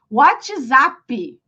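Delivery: "WhatsApp" as "whah-chee-ZAH-pee"; Portuguese pronunciation. Shown as a demonstration. Teacher showing Brazilians their own "WhatsApp", Portuguese pronunciation. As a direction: say "WhatsApp" with Brazilian vowels and an added final ee. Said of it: "WhatsApp é em português".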